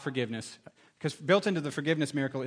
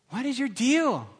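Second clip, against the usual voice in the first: slow retelling; 9 semitones higher, 3 dB louder, slower than usual. Retold or imitated. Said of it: "Remember what his brother said".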